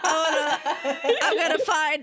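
mock New Yorker. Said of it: "trying to be, I guess, a New Yorker".

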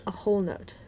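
a soft whispered correction; whispering. Real, not acted. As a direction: whisper it under your breath. Quietly correcting the name.

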